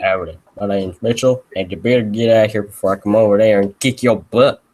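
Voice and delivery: deep-voiced howdy tough; lightly deepened Mitchell character voice; put-on deep voice. Shown as a demonstration. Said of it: "I can only do deep voices like this".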